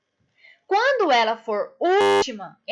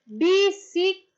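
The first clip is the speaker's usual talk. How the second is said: "bicicleta" raised and broken into BI, CI, CLE, TA; syllable by syllable; 6 semitones higher than usual. Shown as a demonstration. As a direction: chant out "bicicleta" in separate syllables, leaning on CLE. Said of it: "se eu falo a palavra".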